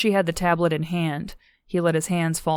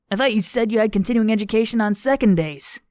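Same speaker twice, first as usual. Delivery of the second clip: higher-pitched, puzzled objection; puzzled Daniel; 5 semitones higher, 4 dB louder than usual. A narrator's reading. Daniel questioning Zandy's excuse, higher and puzzled. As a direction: query it in a higher character voice.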